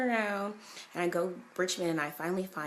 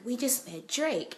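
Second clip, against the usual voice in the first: high, slow, thrilled report; excited quote; 7 semitones higher, slower than usual. Retold or imitated. The speaker telling her friend they met a famous rapper, excited. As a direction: announce it like big news. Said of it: "She's like".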